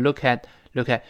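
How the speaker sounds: linked "look at" with the final t held back; unreleased t. Shown as a demonstration. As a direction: say "look at" as loo-ka(t), no burst on t. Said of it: "最后那个t失去爆破了".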